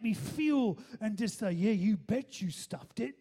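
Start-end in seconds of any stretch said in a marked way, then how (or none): 1.5-3.2 acted-out scolding with heavy, punched stresses; imitating judgmental confessor. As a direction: lay on the judgment, word by heavy word. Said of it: "waiting for all this judgment".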